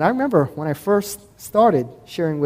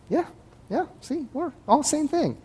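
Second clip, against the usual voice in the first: high, airy put-on Mormon voice, higher; mock breezy Mormon; 10 semitones higher, 7 dB quieter than usual. A preacher mocking Mormons who shrug off his verse, high and airy. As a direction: brush it off lightly like an unbothered missionary.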